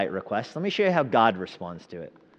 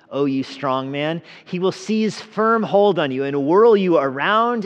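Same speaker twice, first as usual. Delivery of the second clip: loud, high and slow; slow, heavy threat of judgment; harsh warning; 4 semitones higher, 7 dB louder, slower than usual. A narrator's reading. God warns the steward Shebna, loud and slow. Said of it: "God responds with some harsh words".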